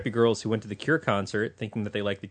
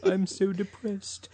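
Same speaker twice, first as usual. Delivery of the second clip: mock depressed; 11 semitones higher, much slower than usual. Jokingly voicing the sad band.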